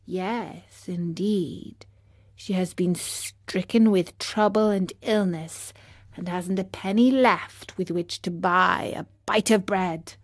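lightly voiced snail telling hard news; sad snail. Snail explains the fairy's poverty, sadly.

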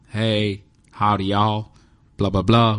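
a light imitation of a country accent; hint of an American country twang. Uber driver Thomas greeting him, a hint of country accent. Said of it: "he had a very sort of country accent".

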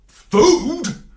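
high, loud excited yap; yapped. A narrator's reading. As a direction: pounce on the word like a puppy. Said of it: "I yapped".

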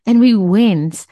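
real delight in the retelling; glowing with joy at the memory; audible joy. Real, not acted. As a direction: let the happy memory carry the voice. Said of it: "hear the joy in my voice".

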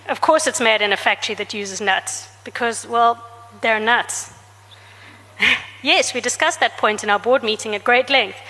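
a lightly voiced reading of her own novel, with boardroom dialogue; story narration. A narrator's reading. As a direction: read the scene out, with a hint of each character. Author reads her novel aloud.

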